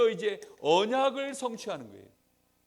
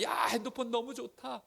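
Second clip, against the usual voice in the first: mock excited gushing, higher pitched; raised pitch, playfully carried away; 5 semitones higher than usual. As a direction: imitate a friend lightly gushing. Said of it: "막 들떠서 얘기할 때".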